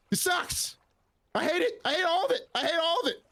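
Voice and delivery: high, fed-up complaint; exasperated whine. Real, not acted. Player moaning about the campaign, high and fed up. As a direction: pitch it up and moan about it. Continued rant about team.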